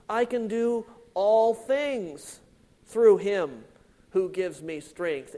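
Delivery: all things slow and weighted; stress on all things. Shown as a demonstration. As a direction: press on all things, slowly. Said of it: "Emphasis, all things".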